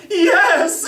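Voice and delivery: loud, high wailed answer; comic tearful shriek of surrender; mock crying. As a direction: cry it out like a sobbing kid, hammed up. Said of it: "And I'm crying".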